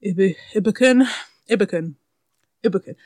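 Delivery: "Ibukun" flattened to English vowels, repeated; water "Ibukun" down, repeating it for a confused listener; anglicised name. Retold or imitated. Customer repeating it to baffled pharmacy staff, anglicised "Ibukun".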